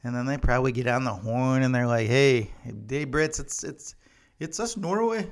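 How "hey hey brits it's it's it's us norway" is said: put-on lightly done Norwegian accent on a phone call; a hint of a Norwegian accent greeting the Brits; mock Norwegian accent. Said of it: "I think that's how they sound".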